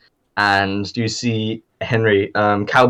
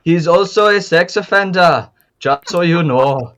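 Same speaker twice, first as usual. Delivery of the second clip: lightly voiced Southern cowboy, a little high; Southern accent; 6 semitones higher than usual. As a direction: slip back into the cowboy's Southern twang. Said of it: "My southern accent has changed a little bit".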